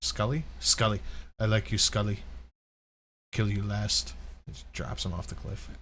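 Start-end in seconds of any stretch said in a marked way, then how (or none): 1.4-4.1 Arnold quote. Retold or imitated. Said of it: "scene in Commando".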